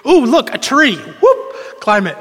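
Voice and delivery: put-on a bored kid suddenly spotting something fun; excited kid. Boy spots a tree during wedding play, excited. Voicing distracted boys at play.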